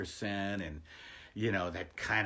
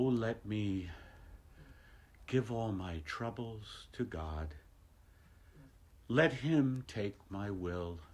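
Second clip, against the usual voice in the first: mock meditation; 3 dB quieter than usual. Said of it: "I was talking the other day about a meditation".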